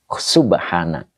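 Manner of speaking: Subhana said slowly and clearly; slow teaching demo of Subhana; model word. Shown as a demonstration. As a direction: Subhana drawn out as an example. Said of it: "Kayak subhana".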